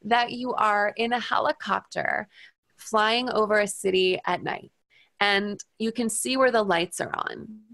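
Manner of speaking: slowing, softening hypnotist guidance; hypnosis voice. Retold or imitated. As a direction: lead him gently into the imagery. Retells hypnosis script to patient.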